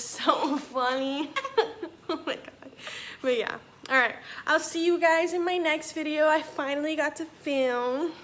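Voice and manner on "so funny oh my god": laughing. Real, not acted. Vlogger tickled by her own labor story, laughing. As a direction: crack up on "so funny".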